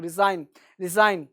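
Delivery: रिजाइन with the S softened to Z; light Z sound. Shown as a demonstration. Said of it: "स को हल्का सा ज sound करेंगे".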